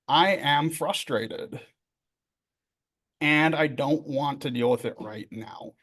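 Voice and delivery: slow, deliberate admission; plain acknowledgment. Acted. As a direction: calmly own up to it, unhurried. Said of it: "is just literally acknowledging".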